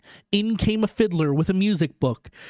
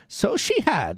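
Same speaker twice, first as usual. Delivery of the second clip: put-on higher, wistful old miser; old Scrooge voice; 6 semitones higher than usual. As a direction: answer like a sad old man. Scrooge replies.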